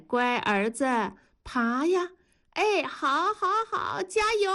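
put-on high-pitched coaxing baby talk; playful high mommy voice; mother cheering baby.

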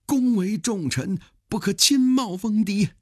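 high-pitched, theatrical plea from a subordinate; urgent dissuasion. Acted. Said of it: "有人劝他说". (高声急切劝阻)

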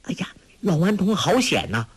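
a lightly voiced girl, a touch of a laugh; laughing remark. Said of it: "笑道".

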